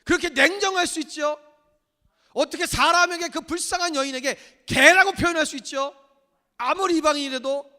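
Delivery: high, loud indignant outburst; indignant protest. Retold or imitated. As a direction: protest loudly at the unfairness. 어떤 마음이냐면. (높고 크게 억울해하며 따지듯)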